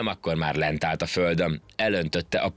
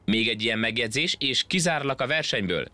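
shouting referee; 4 semitones higher than usual. Acted. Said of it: "kiabált a nyúl".

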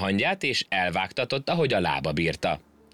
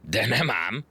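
feisty; 4 semitones higher, slower than usual. Acted. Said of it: "mondta harciasan a hangya".

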